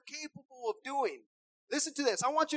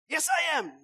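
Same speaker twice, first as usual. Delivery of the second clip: put-on louder, a stubborn child arguing back; stubborn kid, louder; 3 semitones higher, 4 dB louder than usual. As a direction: insist loudly like a sulky kid.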